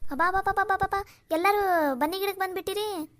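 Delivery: calling out welcome. Acted. Calling out welcome to arriving women.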